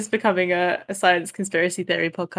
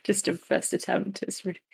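really unsure of himself; 3 semitones higher than usual. Retold or imitated. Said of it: "you just made him sound just, like, really unsure of himself".

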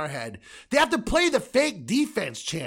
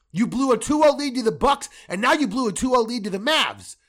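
angry rant; 6 dB louder than usual. Real, not acted. Fan host tearing into his team, loud and angry. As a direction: lay into them. Ranting about blown leads.

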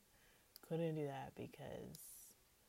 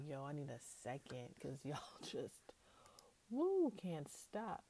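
laughing too hard to go on. Retold or imitated. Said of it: "he's like".

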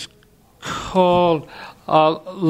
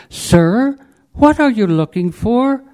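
lightly voiced librarian, higher pitch; a hint of a polite, soft librarian; 5 semitones higher than usual. Librarian asks a library visitor, lightly voiced soft politeness. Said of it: "she said in a quiet, soft voice".

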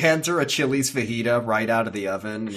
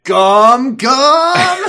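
very loud, high, drawn-out yell; hammed-up battle shout; mock attack cry; 13 semitones higher, 13 dB louder than usual. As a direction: bellow it like a cartoon attack move. Acted attack cry for stretching arm.

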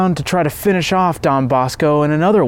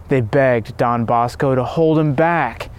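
plain reading voice

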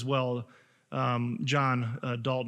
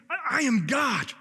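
bold declaration; 9 semitones higher than usual. Acted. Voicing Jesus' claim.

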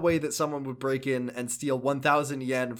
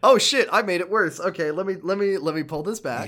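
raised, loud burst that eases off; flustered backpedaling; 4 semitones higher, 5 dB louder than usual. Retold or imitated. Kiryu realizing he made things worse, flustered. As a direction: blurt it high, then scramble to undo it. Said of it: "'Cause he's like".

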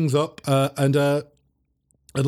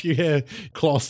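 ordinary delivery

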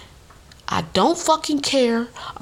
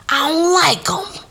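high whispered aside, words unvoiced; 9 semitones higher, 3 dB louder, slower than usual. Real, not acted. Telling the audience her dislike in a high whisper. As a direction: whisper it like a secret grudge. Venting about stepmom's friend's family.

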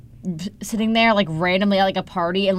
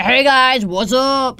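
higher, put-on chummy greeting; mock-friendly greeting; 4 semitones higher, much slower than usual. Shy kid imagining greeting strangers, mock-friendly. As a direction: greet like an overconfident joiner.

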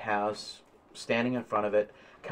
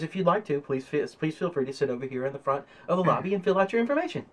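lightly voiced receptionist, quick and higher; obliging receptionist; 5 semitones higher, faster than usual. Receptionist hands applicant a data pad, lightly voiced and polite. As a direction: politely direct a visitor, slightly hurried. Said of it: "She hands you a data pad and says".

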